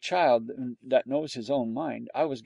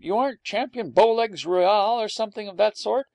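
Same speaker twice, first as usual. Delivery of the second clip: high-pitched, delighted greeting; lively, raised voice of happy disbelief; pleased surprise; 8 semitones higher than usual. A narrator's reading. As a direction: greet a kindred spirit eagerly. Delighted dog greets fellow mongrel.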